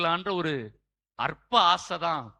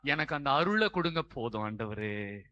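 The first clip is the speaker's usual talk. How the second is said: pleading prayer; 5 dB louder than usual. Acted. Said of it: "ஆண்டவர்கிட்ட நம்ம கேட்க போறது". (கெஞ்சும் ஜெபக் குரல்)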